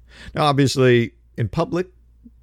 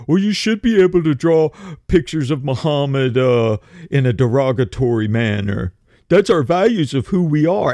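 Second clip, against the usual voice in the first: mock hypocrites. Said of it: "they'll run around".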